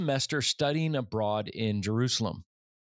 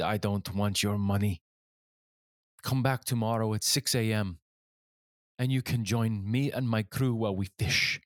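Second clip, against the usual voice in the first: imitated stern captain with a Jewish accent, pitched lower; 3 semitones lower than usual. Fishing boat captain answering the student's request, in an imitated Jewish accent. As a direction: lightly put on a deliberate, low Jewish accent. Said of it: "in his thick Jewish accent".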